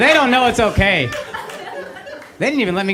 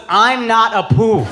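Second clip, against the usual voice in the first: slow imitation of the parents' Indian accent; mock the parents with an Indian accent, slowly; 3 dB louder, slower than usual. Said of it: "offended my parents about Apu was".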